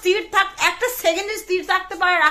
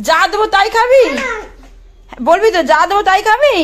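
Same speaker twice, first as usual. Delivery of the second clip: calling to the bird; 3 semitones higher, 5 dB louder than usual. Real, not acted. Coaxing pet bird to answer.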